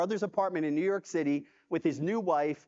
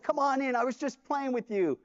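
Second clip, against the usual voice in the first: teasing reassurance; 6 semitones higher than usual. Retold or imitated. Boss reassures after prank.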